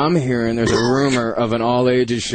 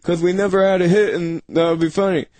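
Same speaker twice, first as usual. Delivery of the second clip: higher, mock-excited band guy pitching a name; mock band member; 6 semitones higher than usual. Mocking bands pitching the name Greatest Hits, excited. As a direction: ham up the clever idea. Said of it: "every band was like".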